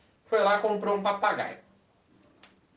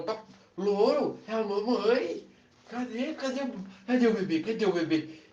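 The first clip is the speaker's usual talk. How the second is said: put-on higher cooing baby talk; 5 semitones higher than usual. Woman coaxes the silent parrot in baby talk.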